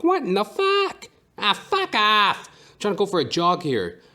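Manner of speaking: cranky put-on voice yelling at passersby; grouchy man's yell, way up high; mother's ex-boyfriend. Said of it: "I sound like my mother's ex-boyfriend".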